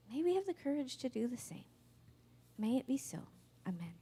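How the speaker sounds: soft, hushed benediction; closing prayer. Real, not acted. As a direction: close the sermon in quiet prayer.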